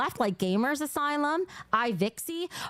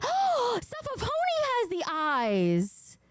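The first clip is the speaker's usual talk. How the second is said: high gasp into slow squeal; delighted squeal; 10 semitones higher, slower than usual. Real, not acted. Streamer discovers the pony has the eyes, delighted squeal.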